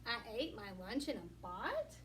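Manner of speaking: "bot" with a short o, asked with a rising tune; misreading "bot". Shown as a demonstration. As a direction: read the wrong word "bot" puzzled. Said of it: "what is that supposed to say?".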